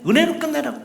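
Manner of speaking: preacher plays the devil urging an end at grace; devil coaxing. Retold or imitated. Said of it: "마귀가 꼭 와서 속삭입니다".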